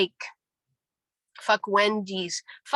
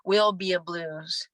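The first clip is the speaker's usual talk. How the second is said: slow, certain stress on "Will be a blues."; unhurried, confident delivery; sure and certain; 2 semitones lower than usual. Shown as a demonstration. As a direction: say "Will be a blues." with total surety. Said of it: "Don't you love that surety?".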